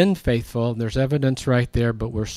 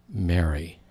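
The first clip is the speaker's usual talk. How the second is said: a lightly voiced, tender, lower "Mary."; 6 semitones lower, 4 dB quieter than usual. Jesus calling Mary Magdalene by name, tender. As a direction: say "Mary." softly, like a dear name. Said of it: "you had to have heard the tone of voice".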